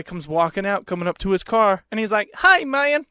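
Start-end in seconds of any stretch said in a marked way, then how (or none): 2.3-3.1 higher, louder redneck greeting; a hick drawl saying hi; redneck accent. Retold or imitated. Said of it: "most redneck of accents".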